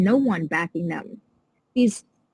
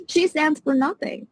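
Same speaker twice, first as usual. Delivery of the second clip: pitched up much higher in real indignation; a much higher, heated repeat of "She stands for nothing"; getting mad; 7 semitones higher than usual. Real, not acted. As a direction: blurt it again, higher and fed up. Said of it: "getting mad".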